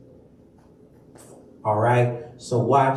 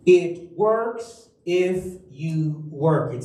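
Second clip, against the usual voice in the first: WORKS stressed, slowed phrase; slow emphatic motto; slower than usual. Shown as a demonstration. Pastor to congregation, slow motto with works stressed. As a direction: lay the word works down slowly. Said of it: "Say that with me".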